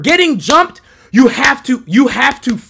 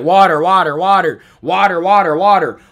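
repeated taunt in a mock American accent; 5 semitones lower than usual. Guy mocking the American's way of saying water, mocking. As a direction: parrot the word over and over. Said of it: "he was mocking me".

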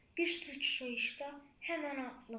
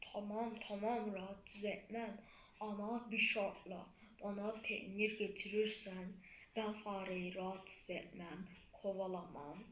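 lower, hushed cat; sly cat voice; 4 semitones lower than usual. Acted. The cat bargains with the flea in a low hush.

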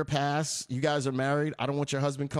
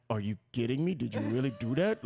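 stern grandmother; 4 semitones lower than usual. Retold or imitated. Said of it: "Like that deep".

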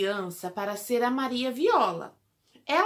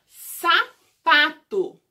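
slow word presentation; 4 semitones higher, 8 dB louder, much slower than usual. Shown as a demonstration. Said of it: "teacher presents word".

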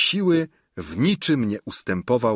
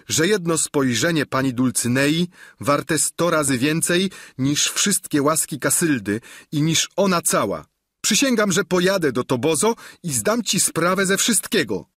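defeated knight; 6 semitones higher than usual. Acted. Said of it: "rzecze niefortunny rycerz".

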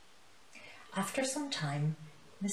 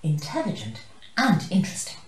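cheering in unison; 2 semitones higher, 7 dB louder than usual. Acted. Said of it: "choir cheered in unison".

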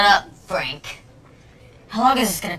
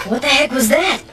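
switched high voice; 5 semitones higher than usual. Acted. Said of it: "You sound so weird".

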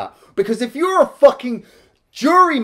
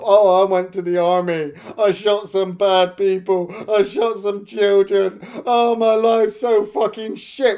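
whiny bad cop. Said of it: "fucking bad cop".

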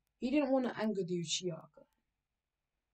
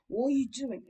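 startled question; 5 semitones higher, 5 dB louder than usual. Acted. Female Anbu startled at Kakashi.

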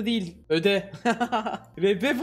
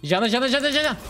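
higher, rapid-fire repeated call; urgent callout; 5 semitones higher, faster than usual. Real, not acted. Gamer calling the target to teammates, urgent callout. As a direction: fire off the name urgently, pitch raised.

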